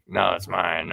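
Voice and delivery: imitated possessive dog, lightly growled; mock growly dog talk; growling dog. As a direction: voice the dog guarding its toy. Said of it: "growls at us like".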